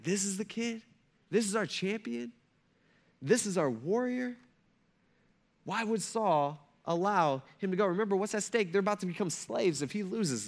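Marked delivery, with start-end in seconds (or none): 0.0-4.4 embarrassed soldiers. Retold or imitated. Israelite army, embarrassed.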